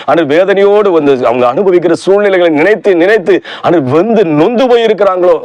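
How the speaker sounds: earnest pleading prayer to the Father; fervent prayer. Acted. Preacher praying aloud for the grieving viewers, fervent. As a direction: pray it out, asking God to wipe the tears.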